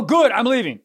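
laughing through the quote; laughing reenactment. Retold or imitated. Friend asks how he said it, laughing redo. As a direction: redo the line while cracking up. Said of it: "How'd you say it?".

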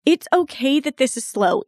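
triumphant yes. Retold or imitated. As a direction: cheer yourself on, lifting high on yes. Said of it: "And I was like".

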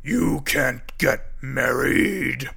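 slow, loud, menacing bug voice; the stink bug forbids the wedding, slow and menacing; scary voice. A narrator's reading. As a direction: drag it out to sound scary. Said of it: "said a scary voice".

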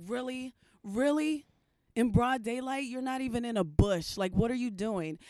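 incredulous. Retold or imitated. Imitating cop who caught her peeing, incredulous. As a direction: retell a cop's disbelieving scolding.

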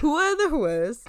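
"whores" echoed playfully as hoo-uhs; mock pronunciation. Echoes the co-host's silly version.

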